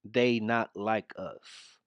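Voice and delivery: slow, soft parroting drawl; mocking drawl. Commentator mimicking the vice president's line, slow mocking. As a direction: drag it out to sound dumb. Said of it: "mannerisms of how ignorant".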